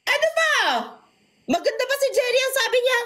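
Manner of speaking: squeaky put-on voice. Teasing in a high put-on voice.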